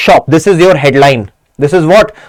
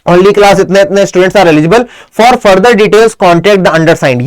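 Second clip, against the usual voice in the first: slow, deliberate reading of the closing line; slow dictation; much slower than usual. Shown as a demonstration. Teacher reading the closing line for students to copy, slow. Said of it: "ये line last में लिखनी ही लिखनी है".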